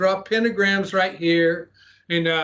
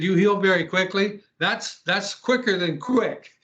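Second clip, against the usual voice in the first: retold disbelief, slightly raised pitch; incredulous; 2 semitones higher than usual. Man questions woman about her quick healing, incredulous. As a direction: question it, slowing on the comeback.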